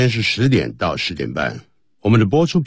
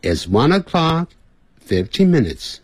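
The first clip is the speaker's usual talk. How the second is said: lengthened English words; 3 semitones higher than usual. Shown as a demonstration. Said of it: "念英文的时候也可能拉长".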